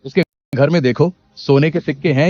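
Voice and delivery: village headman summoning everyone; calling out orders. Acted.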